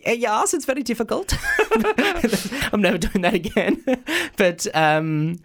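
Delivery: laughing while talking; embarrassed laugh through the words. Real, not acted. Laughing at own mispronunciation.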